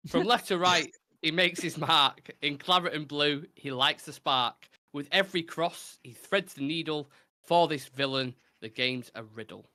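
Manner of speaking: measured rhyming recital; recited verse. Acted. Host reciting a rhyming football clue, measured verse delivery. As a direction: read it out like a poem.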